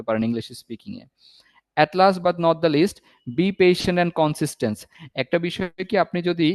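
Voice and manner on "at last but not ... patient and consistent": slow emphatic advice. Acted. Teacher stressing final advice.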